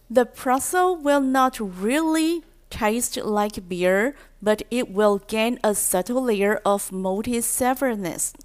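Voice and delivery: slowed down, word by word; slow teaching read. Shown as a demonstration. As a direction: read it slowly for learners to follow. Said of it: "phrase reread slowly for learners". (放慢速度的教学朗读)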